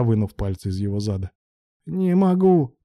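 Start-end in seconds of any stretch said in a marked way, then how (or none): 1.8-2.8 a high, strained wail of a line; a mock howl, pitched well up. A narrator's reading. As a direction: cry it out high, as if unable to hold back. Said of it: "провыл Алан".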